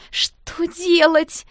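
high, loud, slow despairing wail; distressed. A narrator's reading. Girl with ruined dress, high despairing wail. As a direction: near tears, lost.

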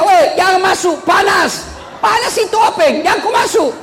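very high-pitched alarmed shout, hammed up; mock warning yell. Villager warning people off the oven-like lift, mock yell. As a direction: cry out a frantic warning for laughs. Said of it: "dia teriak".

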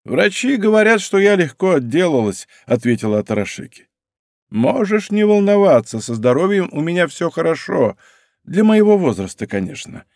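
voiced old woman. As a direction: list them off like a tired grande dame.

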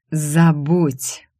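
mildly strained, angry command; forced out. Acted. Enraged rival warns the secretary off, forced out. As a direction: squeeze the word out in anger. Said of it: "выдавила она".

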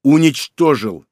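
despairing cry. Acted. Brother's despairing outburst.

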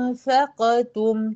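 أنفقتم recited slowly with the ghunna held on the nasal. Shown as a demonstration. Teacher shows students the nasal ghunna in أنفقتم, recited slowly. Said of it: "ميم وميم".

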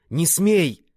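high, loud forbidding cry; alarmed exclamation. A narrator's reading. Wounded man struggling up with baby, alarmed cry. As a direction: cry out to stop the fight. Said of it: "воскликнул Ван Сяоши".

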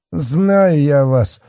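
high, loud, drawn-out accusation; threatening scolding. A narrator's reading. Fat policeman wags a finger at the girl, threatening scolding. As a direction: scold slowly with rising menace. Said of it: "Толстяк погрозил ей пухлым".

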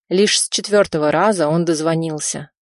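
plain reading voice

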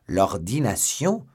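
loud drawn-out "L'ordination?" in disbelief; astonished repeat. Acted. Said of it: "s'écria D'Artagnan".

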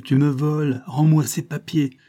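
high, loud outraged demand; acted angry outburst; furious cry. A narrator's reading. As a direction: demand it back in a rage. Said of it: "s'écria-t-il".

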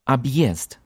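объезд with a clear ye after the b; объезд: obyezd with ye; Ye after hard sign. Shown as a demonstration. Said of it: "sounds like English yes without S".

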